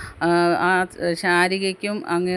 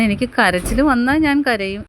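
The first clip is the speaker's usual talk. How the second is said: louder, higher, firm stress on ഞാൻ; defiant retort; 5 semitones higher, 6 dB louder than usual. Retold or imitated. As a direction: fire it back, hitting ഞാൻ hard. Animol defiant retort to Munshi. (ഉറക്കെ, വാശിയോടെ)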